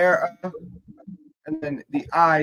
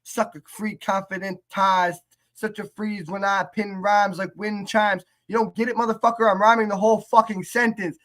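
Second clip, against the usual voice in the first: imitating a rapper's rant; 5 semitones higher than usual. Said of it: "but he's like".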